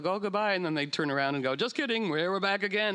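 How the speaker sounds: teasing whale voice. Pretend.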